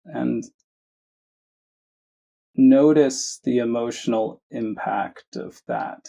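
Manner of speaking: measured meditation guidance with long pauses; unhurried phrases, each given room to settle; guided meditation. Acted. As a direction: guide listeners gently, leaving space between phrases. Leads a guided meditation after chat.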